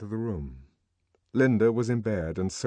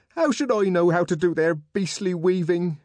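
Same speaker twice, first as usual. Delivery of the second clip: loud, high-pitched indignant outburst; raised voice, aggrieved and cross; angry; 8 semitones higher, 6 dB louder than usual. A narrator's reading. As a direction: snap back in exasperation. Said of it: "And then she got angry too".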